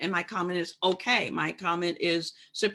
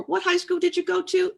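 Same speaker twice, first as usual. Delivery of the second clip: much higher pitched, mock-innocent prying question; mock microaggression question; 12 semitones higher, 3 dB louder than usual. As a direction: mimic a nosy, condescending asker. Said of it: "That's another one".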